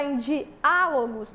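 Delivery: slow diálogos, leaning on the Á; stressed syllable. Shown as a demonstration. Teacher explaining tonic syllable, stress on the Á of diálogos. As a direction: say di-Á-logos with a lengthened Á. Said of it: "a sílaba tônica é a antepenúltima".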